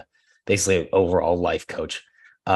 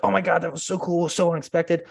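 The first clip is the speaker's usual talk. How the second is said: much higher, gushing thanks; delighted client; 10 semitones higher than usual. Retold or imitated. Client thanking the agent for a surprise gift, much higher gushing. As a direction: gush like a thrilled client. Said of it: "So they were always like".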